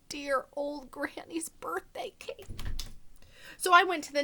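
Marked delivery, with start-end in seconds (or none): 0.1-2.4 soft slow whisper. Acted. Wolf pleading about granny's cake in a whisper. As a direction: breathe it out softly.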